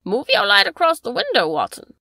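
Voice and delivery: eager cry. Acted. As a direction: shout the instruction. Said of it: "cried the Baronet".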